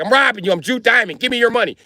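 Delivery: high, insistent mock robber voice; Jewish robber. Jew Diamond robbing someone, high mock voice. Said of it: "if your motherfucker be like".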